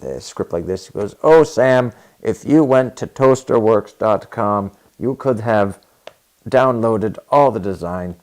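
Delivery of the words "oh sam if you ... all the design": loud, halting mock Hispanic accent, much louder; thick Hispanic accent. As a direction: stumble through the line like a nervous Hispanic non-native speaker. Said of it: "in this very thick accent".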